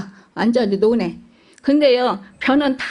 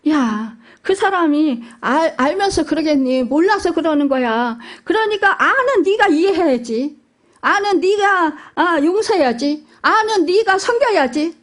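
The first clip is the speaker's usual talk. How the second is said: put-on gently pressing a lesson on a child, building higher; patient divine correction that climbs higher; voice of God gently instructing; 4 semitones higher than usual. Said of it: "우리 하나님이 그러셔요".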